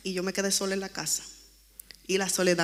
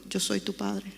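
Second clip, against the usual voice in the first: soft voice; 6 dB quieter than usual. Retold or imitated. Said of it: "una voz muy suave que me dijo en el oído".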